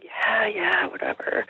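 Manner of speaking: quoting a half-listening brush-off; dismissive brush-off. Retold or imitated. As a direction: wave it away, voice fading out. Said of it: "I'm just kinda like".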